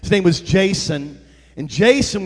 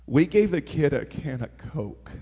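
hushed emphasis; 5 semitones lower, 8 dB quieter than usual. Real, not acted. Preacher stressing a small gift to the church, hushed wonder. Repeats it for effect.

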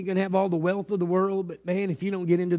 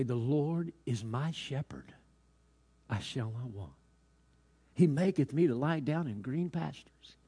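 lightly voiced star pupil reciting scripture; trained student recitation; 2 semitones lower, 5 dB quieter than usual. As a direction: recite it slowly and correctly, with measured pauses. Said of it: "with all of his knowledge and teaching, he began to say".

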